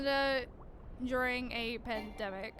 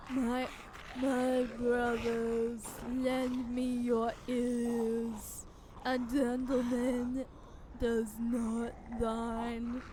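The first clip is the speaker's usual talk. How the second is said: zombie voice; much slower than usual. Pretend. Voicing undead gentleman lines.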